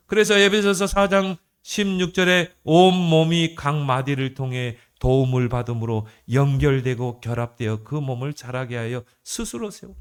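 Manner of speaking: loud, even-toned verse reading; scripture recitation. Acted. Preacher citing Ephesians to the congregation, emphatic scripture recitation. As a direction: proclaim the verse in a steady chant-like line.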